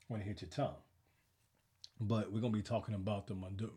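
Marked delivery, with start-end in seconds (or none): 2.0-3.7 words slurred round a lozenge; sucking a throat lozenge. Real, not acted. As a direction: cough drop in mouth. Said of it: "Look at that cough drop out of my mouth".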